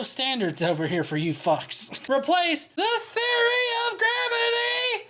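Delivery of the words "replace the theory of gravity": very high, drawn-out mock wail; exaggerated high-pitched comic shriek; hammed-up mock outrage. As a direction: cry it out slowly in a squealing voice. Hammed-up reading of comment.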